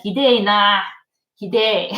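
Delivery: mock Saitama delinquent Japanese; Saitama Yankee accent. Shown as a demonstration. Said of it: "kind of accent".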